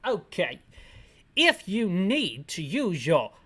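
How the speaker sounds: slow, hammed-up British officer; exaggerated British accent, drawn-out words; mock British accent. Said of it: "we can make this guy British".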